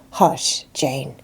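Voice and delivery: soft whispered hush; calm her with a whisper. Acted. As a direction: friend hushing a crying girl in a whisper. Helen soothing weeping Jane.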